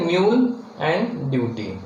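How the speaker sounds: mule and duty, each said slowly with a clear yoo glide; diphthong U in mule. Shown as a demonstration. Teacher showing the U diphthong to shorthand learners, slow and clear. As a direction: give mule a long yoo sound. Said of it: "the sound U of in a word like".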